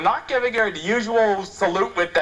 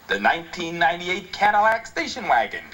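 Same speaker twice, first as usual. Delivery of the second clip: mock ad read; 4 semitones lower than usual. Shown as a demonstration. Host reading a car slogan to listeners, mock ad voice. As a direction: read it like a smooth car commercial. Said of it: "let me read it to you".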